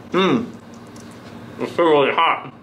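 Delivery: mumbling mid-bite; talking through hot food; mouth full of pizza. Real, not acted. Seen 0: Mouth pressed into hot pizza slice, cheese stretching, throughout words.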